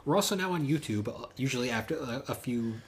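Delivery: upbeat host sign-off; podcast outro. Acted. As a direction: wrap up like a radio host.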